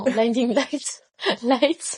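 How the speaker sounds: English title in a self-mocked French accent, slowly, with a laugh; accent anglais approximatif. Real, not acted. (accent anglais hésitant, en riant)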